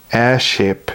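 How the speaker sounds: lips pursed tight. Acted. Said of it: "he said through pursed lips".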